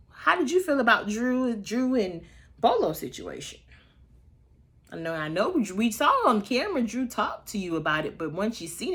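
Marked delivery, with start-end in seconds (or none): 0.1-3.6 quoting Andy. Retold or imitated. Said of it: "Andy asked Ralph".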